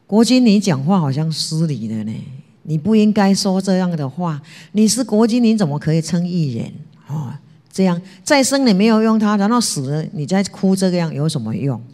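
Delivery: a disciple scolding his ruler for false grief, loudly; stern rebuke. Retold or imitated. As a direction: tell the duke off, loud and indignant. Zigong rebukes the duke.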